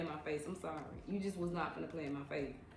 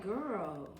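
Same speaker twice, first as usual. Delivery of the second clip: mimicking her own comeback; 4 semitones higher than usual. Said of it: "I'm like".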